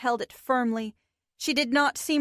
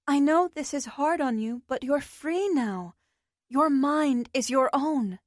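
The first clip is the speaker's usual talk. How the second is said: soft comfort; 3 semitones higher than usual. Acted. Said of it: "said to her softly".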